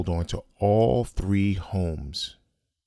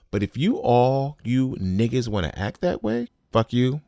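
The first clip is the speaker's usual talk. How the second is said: retold angry outburst; 6 semitones higher than usual. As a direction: throw it at them all, half-shouted. Retold outburst at whole family.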